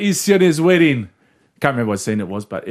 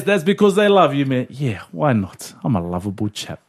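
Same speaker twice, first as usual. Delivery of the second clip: put-on Jake the Muss accent.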